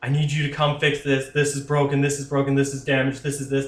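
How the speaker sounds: put-on tearful, pleading voice. Retelling the owner's phone call asking him to come fix things: imitating someone begging. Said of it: "almost in tears on the phone or something, like, begging".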